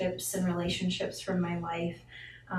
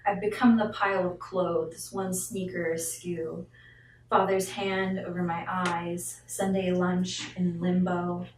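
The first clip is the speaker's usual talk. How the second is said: driving, emphatic spoken-word cadence; poetry recitation; 4 dB louder than usual. Acted. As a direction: recite it as a wrathful poem, punching key words. Reads second poem aloud.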